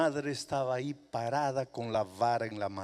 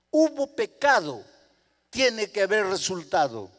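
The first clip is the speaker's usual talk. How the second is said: stern insistence; 5 semitones higher, 6 dB louder than usual. Acted. Mother insisting on punishment.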